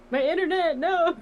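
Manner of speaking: sudden high cry of alarm; real dismay. Real, not acted. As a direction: yelp as the connection drops. Connection breaking up mid game.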